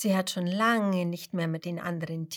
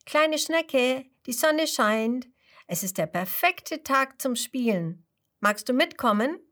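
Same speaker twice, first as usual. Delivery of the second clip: put-on cheerful grasshopper girl; 5 semitones higher, 4 dB louder than usual. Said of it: "die außen neben dem Schneckenhaus steht und ruft".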